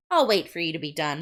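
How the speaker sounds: mildly sinister, understated; a touch of veiled threat. Acted. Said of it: "It's so sinister now".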